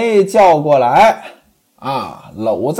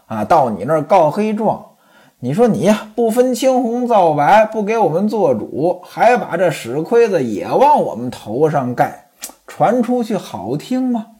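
coquettish scolding. Acted. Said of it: "娇滴滴地说".

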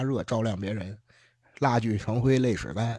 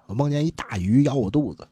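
usual speaking voice

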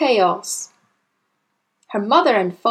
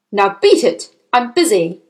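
brusque dismissal; 6 dB louder than usual. Acted. Father dismissing daughter.

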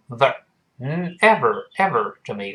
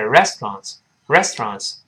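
"restaurant" shortened to res-tronts; quick reading; 4 semitones lower than usual. Shown as a demonstration. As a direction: glide over the middle of "restaurant". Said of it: "读快了".

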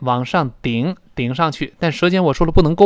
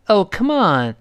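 high, upbeat coaxing in English; optimistic husband; 6 semitones higher than usual. Acted. Husband suggesting another pump, upbeat encouragement. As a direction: urge a partner brightly, pitched up. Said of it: "老公倒挺乐观".

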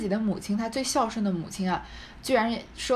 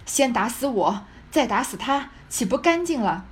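a touch of agitated reproach; emphatic, higher-pitched protest, lightly acted; trembling old matriarch; 3 semitones higher, 4 dB louder than usual. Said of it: "颤巍巍的声气说道".

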